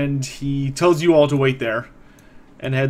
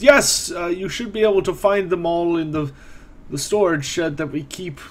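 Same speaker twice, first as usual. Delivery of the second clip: put-on higher old man voice, trailing off; old caretaker pointing the way; lightly voiced old man; helpful elderly man; 3 semitones higher than usual.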